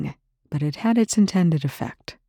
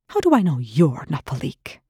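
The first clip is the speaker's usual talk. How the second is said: snapped. Acted. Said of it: "Rush snapped".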